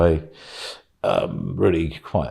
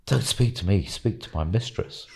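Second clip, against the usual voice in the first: entranced servant; 5 dB quieter than usual. Retold or imitated. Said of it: "It's like this trance".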